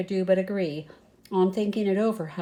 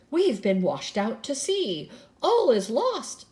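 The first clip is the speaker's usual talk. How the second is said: higher, louder mock shriek of terror; panicked shriek; 4 semitones higher, 3 dB louder than usual. A narrator's reading. The mice shriek in panic at the gigantic waves. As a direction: wail that all is lost. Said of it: "shrieked the mice".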